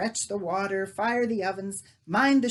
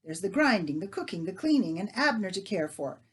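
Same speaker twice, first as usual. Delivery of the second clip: scolding; 3 semitones higher, 6 dB louder than usual. Acted. Leah scolds neighbour.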